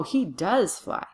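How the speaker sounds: DOES punched to insist it is true; insisting, with the weight on DOES; emphatic DOES. Shown as a demonstration. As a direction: stress "does" firmly. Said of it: "gives us the emphasis".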